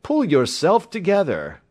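loud, high-pitched order; urgent cry. A narrator's reading. Doctor ordering the hysterical patient to calm down, crying out. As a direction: call him firmly back to his senses. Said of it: "I cried".

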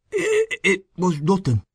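high, slow and thick-tongued, stumbling at the start; very thick speech. A narrator's reading. Injured man making light of his accident, very thickly. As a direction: make light of it through thick, halting speech. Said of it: "He spoke very thickly".

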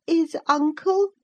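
put-on high childish voice, questioning; a boy asking anxiously; puzzled child. A narrator's reading. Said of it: "he continued".

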